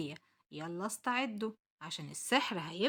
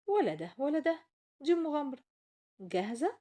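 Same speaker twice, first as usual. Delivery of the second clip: excited; 6 semitones higher, 4 dB louder than usual. Acted. Chair invites to adventure.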